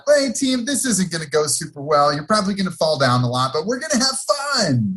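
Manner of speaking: high, bright pep talk; cheerful little coach; chirpy coach voice. Retold or imitated. Coach's pregame speech retold.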